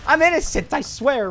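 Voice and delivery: very high, loud mock panic; freaking out. Traveler protesting innocence to officer, high frantic retold panic. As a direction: plead in a hammed-up, high-pitched frenzy. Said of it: "And I'm freaking out".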